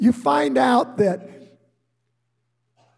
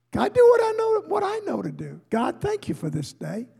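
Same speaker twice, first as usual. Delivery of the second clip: quiet morning prayer; 8 semitones higher, 3 dB quieter, faster than usual. Retold or imitated. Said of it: "before I ever get out of bed, I say".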